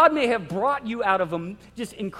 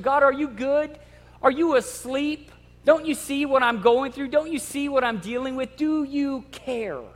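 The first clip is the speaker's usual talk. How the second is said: anxious questioning of God; 3 semitones higher than usual. Retold or imitated. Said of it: "we question".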